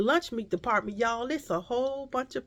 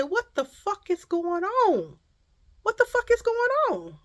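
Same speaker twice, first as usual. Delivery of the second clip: retold exasperation; 11 semitones higher than usual. Retold outburst in store aisle.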